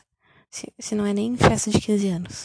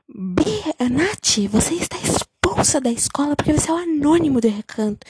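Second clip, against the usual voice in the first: higher, louder scolding principal; mock stern principal; 4 semitones higher, 4 dB louder than usual. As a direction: expel her in front of everyone. Principal expelling student at party. (diretora brava expulsando a aluna)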